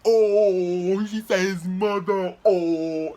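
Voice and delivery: loud, drawn-out ooh of classmates; stretched, taunting schoolyard reaction; mock crowd jeering. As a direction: egg it on like kids watching a fight. Classmates egging on the fight.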